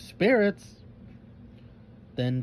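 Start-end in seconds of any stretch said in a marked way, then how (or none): 0.0-0.8 high, loud surprised cry; exclaiming. A narrator's reading. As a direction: gasp it out in shock. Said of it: "three girls simultaneously exclaimed".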